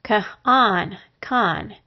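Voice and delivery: "con" stressed, with a full o vowel; accented con. Shown as a demonstration. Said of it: "When the accent is on that syllable".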